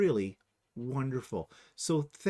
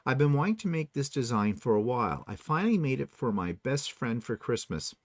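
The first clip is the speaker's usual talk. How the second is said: lively presenter's read, a bit raised; reading aloud; 3 semitones higher, 3 dB louder than usual. Acted. Host presenting subscriber's creation to viewers, animated read-aloud. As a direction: read out a viewer's note brightly to the audience.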